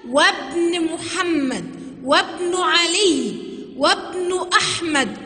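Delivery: slow "وابن" said wabn, alef skipped; "وابن" with no glottal stop, drawn out; alef left silent. Shown as a demonstration. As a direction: join wa straight to b in "وابن". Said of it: "ما نطقتش الألف".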